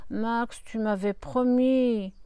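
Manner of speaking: slow, simpering plea from the lips; minaudant. Acted. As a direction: lay the charm on slowly. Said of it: "en minaudant du bout des lèvres". (minauderie lente du bout des lèvres)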